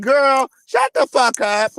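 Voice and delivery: slow, loud shout of disbelief; disbelieving shout. Real, not acted. Yelling at the gossip's claim, slow disbelieving shout. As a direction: yell it slow like you can't believe it.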